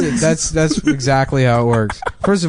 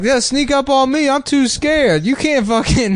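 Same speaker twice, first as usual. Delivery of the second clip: mock scared soldier; 12 semitones higher than usual. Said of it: "he's like".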